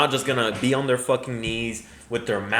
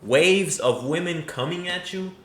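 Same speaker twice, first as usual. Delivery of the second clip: incredulous echo; 4 semitones higher than usual. Retold or imitated. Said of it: "Come on, brother".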